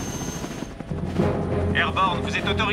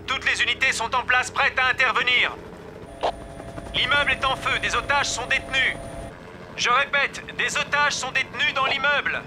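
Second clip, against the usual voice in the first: radio voice; 8 semitones higher than usual. Acted. Police radio announcement.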